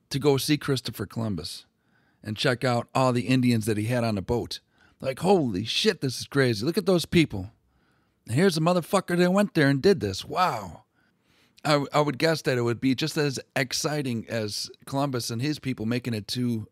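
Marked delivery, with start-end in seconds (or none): 5.2-10.8 loud, higher, wide-eyed wonder at the strangers; amazed gawking. Retold or imitated. Lisbon crowd gawking at Columbus's natives, loud amazement. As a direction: gasp it out like a gawking onlooker.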